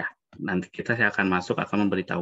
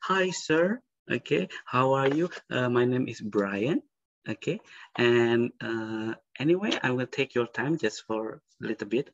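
higher, slow, courteous greeting; polite magician intro; 3 semitones higher, slower than usual. Shown as a demonstration. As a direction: greet the audience like a stage magician. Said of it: "basa-basi dulu".

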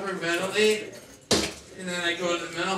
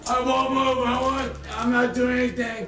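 high, loud, pleading voice; panicked pleading; 4 semitones higher, 3 dB louder than usual. Real, not acted. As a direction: beg them not to hurt you. Detainee pleading loudly.

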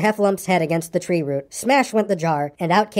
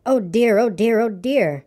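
fretting Piglet; 3 semitones higher, slower than usual. A narrator's reading. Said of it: "said Piglet to himself".

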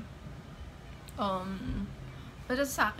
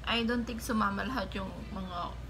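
muffled behind hands; speaking through cupped hands. Real, not acted. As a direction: fingers pressing nose sides. Seen 2: both hands cup nose and mouth while speaking; gone by +3.1.

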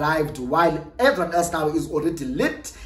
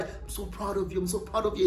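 hushed and intimate, much softer; soft murmur; 9 dB quieter, faster than usual. Retold or imitated. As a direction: breathe the praise quietly as he holds her. Work husband voiced, holding her.

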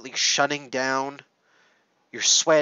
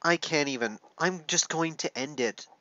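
choked up; 5 dB quieter than usual. Real, not acted. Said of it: "getting this emotional on camera".

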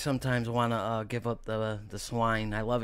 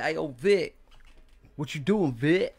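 lightly voiced impression, slightly raised; imitating a friend's talk; 4 semitones higher, slower than usual. Friend greets Vic, lightly imitated voice. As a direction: mimic your buddy's way of greeting you. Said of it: "my man talk like this".

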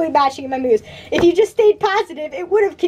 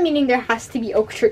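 talking through hiccups; hiccuping between words; 4 semitones lower than usual. Real, not acted. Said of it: "Oh no, I have the hiccups".

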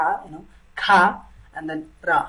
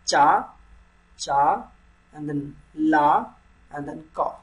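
syllable by syllable; slower than usual. Shown as a demonstration. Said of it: "you have to say it together".

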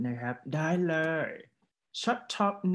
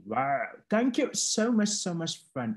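enthusiastic praise; 3 semitones higher, much slower than usual. Real, not acted. Teacher praises student's reading.

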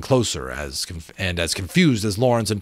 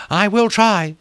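dragon's reply; 12 semitones higher, 6 dB louder than usual. A narrator's reading. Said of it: "Temeraire said".

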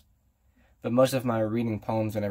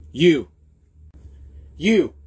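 each you louder and higher; rising shouts; 5 semitones higher, 8 dB louder than usual. Acted. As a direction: build up the shouting.

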